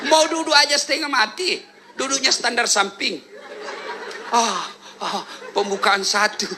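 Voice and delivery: laughing, groaning pregnant mother; pregnant woman. Retold or imitated. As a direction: mimic the strain of labour. (meniru ibu hamil sambil tertawa)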